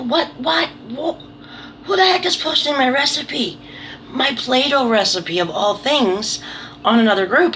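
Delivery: high, indignant squawk of disbelief; who is posting my recipe, shocked and high. Retold or imitated. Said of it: "and I'm like".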